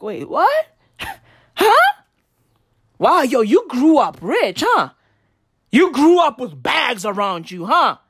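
incredulous teasing; surprised. Retold or imitated. Comic mocking a bread snob, incredulous. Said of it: "I'd be like".

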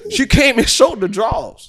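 high, slow, laughing through it; can barely get it out laughing. Real, not acted. Telling embarrassing story, laughing.

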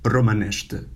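romanește with sh before te; Romanian romanește. Shown as a demonstration. Teacher models romanește for students. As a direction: say romanește clearly. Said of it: "How to say the language?".

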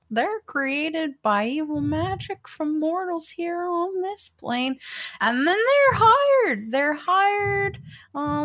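high, slow, lecturing professor; drawn-out know-it-all teacher voice; old professor voice. Retold or imitated. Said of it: "hear your old professor's voice in your head".

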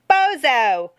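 high, loud name-calling; jeering shout. A narrator's reading. Tina to the girl who kept moving, shouting a jeer. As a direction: shout the insult after someone.

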